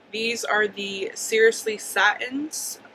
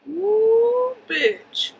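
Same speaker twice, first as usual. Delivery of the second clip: excited whoop; 13 semitones higher, 7 dB louder than usual. Real, not acted. Admiring her highlighter glow.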